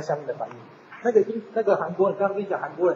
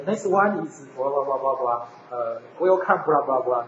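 mock session chair; 4 semitones lower, slower than usual. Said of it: "就是要上来说".

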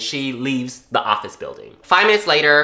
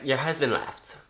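softer, gentle telling; polite; 7 dB quieter than usual. Shown as a demonstration. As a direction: break the news kindly and softly. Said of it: "I didn't say it rudely like that".

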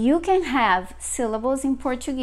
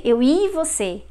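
1 fast Brazilian version; 3 semitones higher, 3 dB louder than usual. Shown as a demonstration. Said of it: "When they are talking fast, Brazilians will say".

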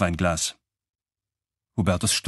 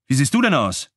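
higher, startled exclamation; exclaimed question; 4 semitones higher, 3 dB louder than usual. A narrator's reading. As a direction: call it out in mild astonishment. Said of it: "rief Klaus". (erstaunt ausgerufen)

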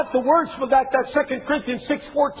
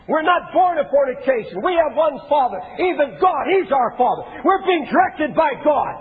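defiant claim. Retold or imitated. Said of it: "That's what these Jews were saying".

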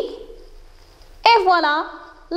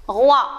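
"roi" said alone as one syllable; isolated syllable; 2 semitones lower, 4 dB louder than usual. Shown as a demonstration. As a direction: set "roi" apart between pauses. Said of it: "la deuxième syllabe". (« roi », syllabe bien détachée)

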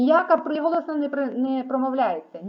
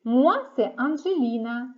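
high, loud, breezy Salut; casual bright greeting; 4 semitones higher, 5 dB louder than usual. Shown as a demonstration. A teacher greeting students casually in French. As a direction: toss off a friendly informal hi. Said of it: "неформальний".

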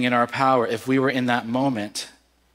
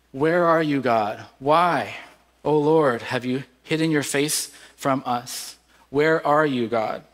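raised, pleading lament cry; crying out to God; 2 semitones higher than usual. Retold or imitated. Preacher voicing Mordecai's cry to God, a raised lament. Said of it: "He cries out in a loud voice".

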